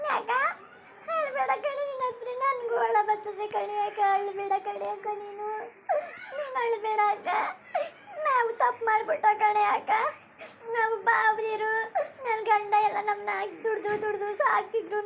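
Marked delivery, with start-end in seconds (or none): 6.4-15.0 tearful pleading through sobs; weeping confession; crying. Acted. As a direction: cry while begging your sister. Sister crying, consoling elder.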